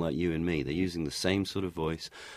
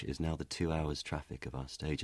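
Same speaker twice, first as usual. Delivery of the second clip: quicker, softer, with "now" clipped; 9 dB quieter than usual. Shown as a demonstration. Showing how the prologue line ran quicker. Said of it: "because they spoke quicker".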